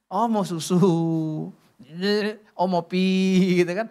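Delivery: cooing mock mother to a baby; mother's baby talk. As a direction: coo it like a mother reading her baby. Mother guessing baby's wants.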